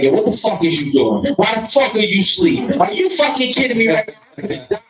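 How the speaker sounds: rising, incredulous late-night rant; mock outrage. Man waking his lady over the cat, mock outrage. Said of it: "I'll call her like".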